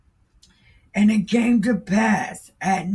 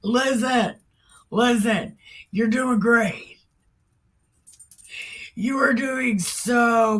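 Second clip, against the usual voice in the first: mock coach cheer; 4 semitones higher than usual. Elijah mockingly cheers on the prophets like a sarcastic coach. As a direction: egg them on like a fake-hearty coach. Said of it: "He's like".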